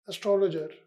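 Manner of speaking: एस्ट्रोलॉजर said carefully as ess-tro-lo-jer, each syllable clear; teacher modelling एस्ट्रोलॉजर; correct pronunciation. Shown as a demonstration. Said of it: "इसकी right pronunciation है एस्ट्रोलॉजर".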